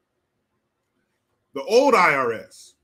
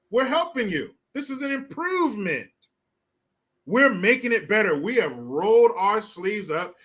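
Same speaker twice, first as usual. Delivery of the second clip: politician's voice; 3 semitones higher than usual. Acted. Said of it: "You see how they do it?".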